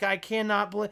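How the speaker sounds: quiet wooden deadpan; emotionless line reading. Retold or imitated. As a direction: mimic a lifeless line delivery. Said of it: "how emotionlessly he's like".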